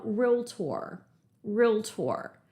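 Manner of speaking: "realtor" said as REEL-tor, two syllables. Shown as a demonstration. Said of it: "I want you to say out loud".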